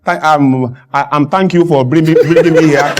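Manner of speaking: halting, um-filled thank-you; mock fumbling speech. Guest thanking the hosts on a show, mock fumbling. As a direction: pretend to stumble for words.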